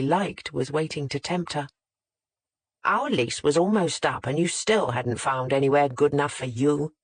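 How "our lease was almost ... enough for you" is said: a light angry growl. Acted. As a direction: growl it out, annoyed. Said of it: "more of an angry growl".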